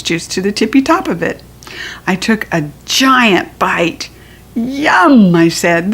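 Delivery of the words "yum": put-on high excited kid voice; chirpy child delight; little girl voice. Junie B voice exclaiming yum.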